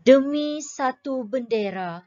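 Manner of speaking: poem recitation. Shown as a demonstration. Teacher declaiming a patriotic poem for pupils, rising and stately. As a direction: declaim the poem proudly to the class. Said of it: "Kemudian deklamasikan mengikut intonasi".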